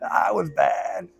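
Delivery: real laughing confession. Real, not acted. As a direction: say it through a laugh.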